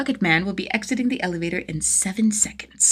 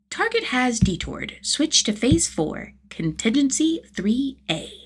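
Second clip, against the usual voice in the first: radio command; 5 semitones higher, slower than usual. Acted. Tim on the radio.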